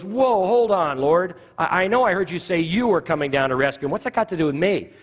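a lightly voiced panicky Moses; Moses protesting. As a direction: backpedal nervously, pitch up. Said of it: "And he goes".

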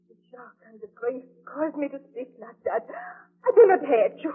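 weeping as she takes it back; tearful remorse. Acted. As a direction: cry through the apology. Takes back her words, crying.

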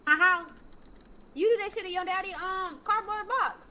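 loud scolding; angry. Acted. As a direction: lay down the law. Mother scolding loudly.

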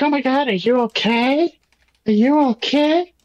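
high-pitched mock fussing; imitated concern. Imitating the woman rescuing Jack, lightly mocked concern.

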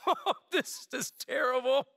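slow, hammed-up groan of a sorry servant; mock despair. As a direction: drag it out like a caught servant, mock dismay. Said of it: "he's like".

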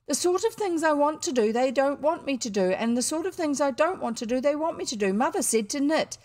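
put-on desperate boy ranting to father; flood of eloquence. A narrator's reading. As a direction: pour out the grievance. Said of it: "burst into a flood of eloquence".

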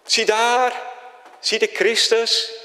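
high, slow pulpit proclamation; preacher crying out to point to Christ; calling out. Retold or imitated. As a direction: proclaim it to the congregation. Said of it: "riep ik".

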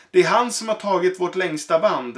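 accusing shout. Acted. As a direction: point out the culprit. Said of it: "ropade slarvsyltan".

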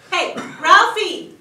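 smug raccoon on the phone. Pretend. Imagined raccoon phoning his friend about the garage, smug role voice. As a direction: gloat to your pal about the loot. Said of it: "calling his friends".

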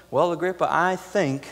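a timid, wavering I think; hesitant, unsure. Retold or imitated. What Paul did not say to Agrippa, hesitant and unsure. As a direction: hedge it like you doubt yourself. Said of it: "It wasn't".

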